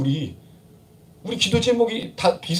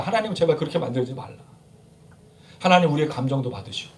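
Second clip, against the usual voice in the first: normal talking voice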